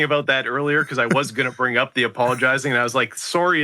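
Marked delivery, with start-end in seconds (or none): 3.1-3.6 "Sorry" said the Canadian way, like "sorey"; Canadian accent. Retold or imitated. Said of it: "is when it really comes out in my accent".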